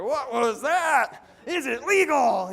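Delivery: high, loud, slow and skeptical; doubtful suspect. Retold or imitated. Mimicking a suspect leaving the meeting, high skeptical voice. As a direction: play the wary suspect squinting at the pitch. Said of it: "this is what a suspect looks like".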